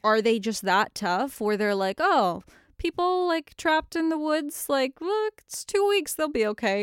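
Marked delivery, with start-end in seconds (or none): 2.0-6.8 careless official. Pretend. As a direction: shrug it off like a lazy bureaucrat. Voicing careless Russian authorities.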